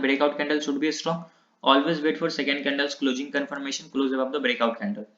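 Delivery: very slow, word-by-word reading of the rule. Shown as a demonstration. Teacher dictates the second rule to students, very slow. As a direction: dictate it slowly for the class to note down. Teacher reads trading rules aloud.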